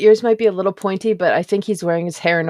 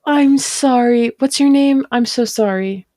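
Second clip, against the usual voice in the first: apologetic character; 5 semitones higher, 4 dB louder than usual. Acted. Player character apologizing, calling out.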